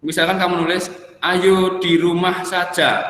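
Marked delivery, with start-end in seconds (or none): 1.2-3.1 "Ayo di rumah saja" drawn out slowly as a question; question intonation. Shown as a demonstration. Teacher showing a wrong question mark, "Ayo di rumah saja" said questioningly. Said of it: "pakai tanda tanya".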